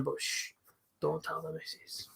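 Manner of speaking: hushed secret aside; whisper. Real, not acted. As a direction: keep it from the wife. Secret from his wife.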